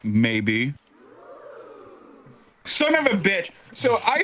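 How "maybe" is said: low, drawn-out teasing answer; smug, shit-eating grin. Retold or imitated. Friend staring into his soul, smug low tease. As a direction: act out a friend needling you, voice dropped low. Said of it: "this shit-eating grin on his face".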